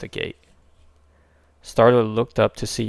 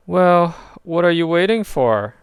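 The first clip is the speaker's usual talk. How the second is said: higher, louder impatient shout; impatient yell; 8 semitones higher, 6 dB louder than usual. A narrator's reading. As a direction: hurry him up. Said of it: "Rocket yelled".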